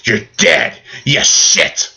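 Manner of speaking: high yelled "Ah" then a rough shouted insult; hammed-up mock yell of a movie one-liner; a yelled, cheesy action-movie one-liner; imitating a scream. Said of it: "he screams like a rapper".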